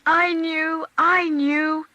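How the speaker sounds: put-on high, loud insistent boy; a boy clinging to his favourite phrase; eager child. A narrator's reading. Boy assures his mother he always knew, eager.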